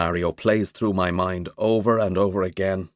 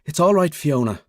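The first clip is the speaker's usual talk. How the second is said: soothing; 7 semitones higher, 3 dB louder than usual. A narrator's reading. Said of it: "he soothes".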